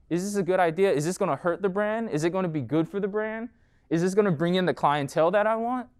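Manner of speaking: retelling his own wavering, each question lifted high; teetering self-doubt. Retold or imitated. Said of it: "you're kind of, like, on this teetering".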